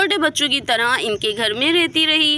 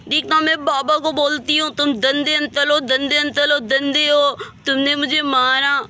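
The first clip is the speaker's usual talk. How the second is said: mock tearful little-girl wail; acted sobbing tantrum with a lisp; childish crying. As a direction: whine babyishly like a slapped child. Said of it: "समन रोते हुए".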